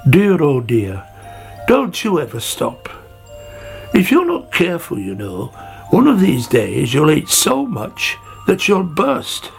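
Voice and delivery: mildly exasperated tut-tutting with lifted emphasis; a touch of weary, acted scolding; sighing Snail. Snail warns Sammy about overeating, lightly sighing reproach. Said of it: "he sighed".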